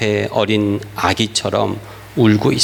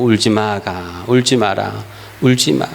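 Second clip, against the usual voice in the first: put-on parent soothing baby; 5 semitones lower than usual. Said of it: "엄마, 아빠가 그 아기를 보고".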